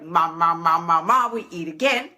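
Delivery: imitated munching noises, low and steady; playful chomping sound; mimed munching. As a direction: gobble it down in nonsense syllables. Mimes greedy eating of the cake.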